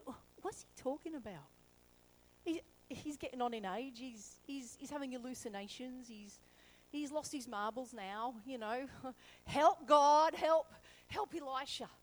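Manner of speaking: muttered doubts, then a half-laughing cry for help; lightly voiced fretful servant; mock worried servant. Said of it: "Imagine Elisha's servant going".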